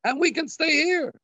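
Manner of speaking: rising bright, pleased delivery; clever wife's idea. Retold or imitated. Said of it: "she says".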